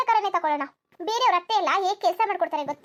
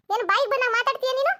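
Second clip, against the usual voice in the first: higher-pitched indignant demand; indignant scolding; 4 semitones higher than usual. Acted. Mother-in-law to back-talking daughter-in-law, indignant scolding. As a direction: take her to task.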